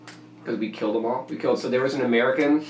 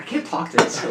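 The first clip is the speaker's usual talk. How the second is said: lightly voiced exasperated French guy; a hint of a frustrated French accent; French coworker giving up on talking; French guy's complaint; 5 semitones higher than usual. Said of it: "He's like".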